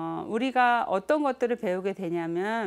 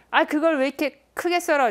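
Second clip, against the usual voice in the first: higher, louder mock scold of a husband; gruff scolding husband; 6 semitones higher, 6 dB louder than usual. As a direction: nag her about chopping too big. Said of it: "그 소리가 너무나 화가 나더래요".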